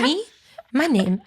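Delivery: mock French accent, questioning. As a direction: play innocent in a fake French accent. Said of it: "I put on a French accent".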